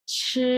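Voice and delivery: ছি held high and level; first tone. Shown as a demonstration. Teacher models the word for eating, high level first tone on ছি. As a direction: stretch ছি on a high, even pitch. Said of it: "এক number tone".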